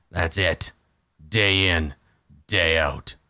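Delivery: hint of a weary orc captive; short, grudging phrases from a lightly played orc; lightly voiced surly orc. Orc prisoner describes forced labour, mildly surly character voice.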